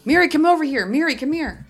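calling out. Acted. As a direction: call her over from a distance. Calling out to a friend.

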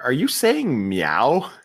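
slow, drawn-out mock query; incredulous question. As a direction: imitate someone slowly questioning an odd word. Imitating Gaffigan's puzzled question.

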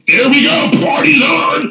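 cheering that the party is on; excited shout. Retold or imitated. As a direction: shout it like the party just started. Thrilled reaction retold.

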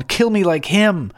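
very high, loud anguished shriek; shrieking lament. A narrator's reading. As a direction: shriek like a funeral mourner. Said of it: "shrieked like the women who lament".

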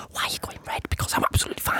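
hushed, breathless whisper to herself; secretive self-talk in a whisper. Retold or imitated. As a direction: whisper it at your own reddening skin. Retold talking to own body.

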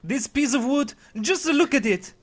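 put-on high, loud, accented alarm; hammed-up fright in an Eastern European accent; frightened carpenter. Carpenter baffled by talking wood, hammed-up frightened accent. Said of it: "trembling and stuttering with fright".

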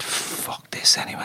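slow under-the-breath swear; whispered curse. Retold or imitated. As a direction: mutter it, fed up, almost silent. Fed up, whispered.

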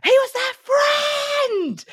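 mock teen actor's high yell; over-the-top shout. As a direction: shout it with hammy outrage. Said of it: "he just goes".

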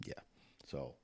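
between sips of coffee; slurping hot coffee. Real, not acted. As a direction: talk right after a slurp of coffee. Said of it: "sorry for the slurping".

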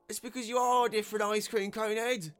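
high, loud heckle; bellowing. A narrator's reading. Heckler insulting the unicorn, bellowing. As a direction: bellow the taunt over the crowd. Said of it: "another voice bellowed".

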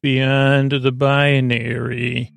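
slow, grand showman intro; announcer voice. Acted. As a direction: roll it out like a ringmaster.

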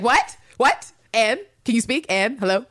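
high, loud demanding questions; imitated impatient shouting. Ann Lister demanding Ann Walker speak, mock shouting. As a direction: badger someone who will not answer. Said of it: "I get why she's shouting".

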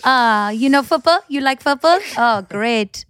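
broken English in a mock-Italian accent; lightly put-on Italian accent, questioning. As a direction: imitate a Brit chatting up a waiter in fake Italian. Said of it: "speaking broken English with an Italian accent".

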